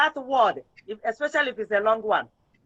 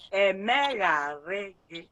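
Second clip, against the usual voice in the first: "Emegharị gị" drawn out slowly, each syllable clear; slow model pronunciation; 3 semitones lower, slower than usual. Shown as a demonstration. Teacher modelling "Emegharị" slowly for a pupil who misspelled it. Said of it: "Listen to it again".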